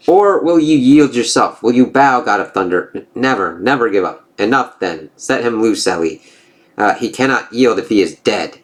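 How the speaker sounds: lightly voiced gods trading taunts; storybook reading of a Norse comic; comic dialogue read-aloud. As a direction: read the panels with a hint of character.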